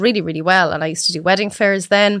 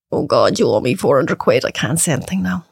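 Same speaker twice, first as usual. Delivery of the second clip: inner grumble; 5 semitones lower than usual. Retold or imitated. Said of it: "you're like".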